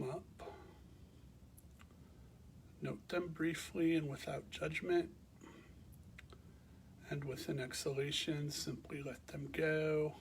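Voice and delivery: calm, measured meditation guidance with long pauses; guided meditation. Real, not acted. Teacher guiding listeners to bring awareness to the breath, calm meditation voice. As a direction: guide them gently into rest, leaving space between phrases.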